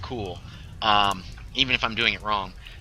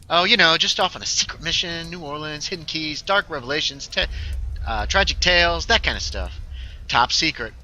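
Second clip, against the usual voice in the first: lightly acted, raised-pitch dodge; lightly voiced game character; 5 semitones higher than usual. Cagey answer about last night's secret mission, lightly acted.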